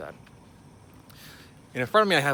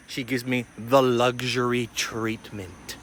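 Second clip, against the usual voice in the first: slow, relishing each word; savoring drawn-out delivery; much slower than usual. Real, not acted. Traveler boasts of luxury treatment, slow and savoring.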